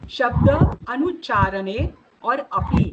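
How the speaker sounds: शब्द, अनुच्चारणे, अपि spelled out slowly as separate words; slow breakdown. Shown as a demonstration. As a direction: split the compound slowly for students. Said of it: "इसमें तीन शब्द है".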